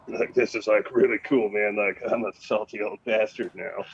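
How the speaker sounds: lightly voiced salty old guy; a hint of a laid-back old sailor, man; George voice. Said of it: "Gotta do the voice this week for George".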